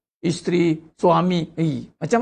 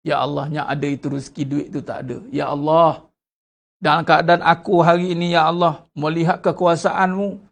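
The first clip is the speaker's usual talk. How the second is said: sincere prayer; 4 semitones lower than usual. Shown as a demonstration. Model heartfelt prayer voiced.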